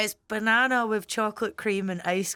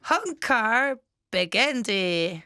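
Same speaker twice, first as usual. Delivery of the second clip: slow careful pronunciation; much slower than usual. Shown as a demonstration. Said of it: "give me a second".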